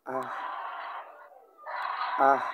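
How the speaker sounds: "আহ" short, light and toneless, Mandarin neutral tone; neutral tone demo. Shown as a demonstration. Teacher demonstrating neutral fifth tone, light "আহ". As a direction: drop "আহ" lightly with no contour. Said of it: "এই টোনটা উচ্চারণ করতে হবে এভাবে".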